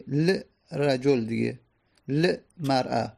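ل رجل with a bare silent l, l-rajul, said slowly; lam with sukun. Shown as a demonstration. Teacher slowly demonstrating ل رجل with a vowelless lam. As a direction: sound ل in ل رجل as a lone consonant, no vowel. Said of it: "پس باید بگیم چی؟".

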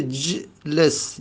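جلس starting straight on a vowelless j; starts on bare consonant. Shown as a demonstration. Teacher showing the unpronounceable form, جلس begun on a bare consonant. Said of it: "پس جلس نمیشه".

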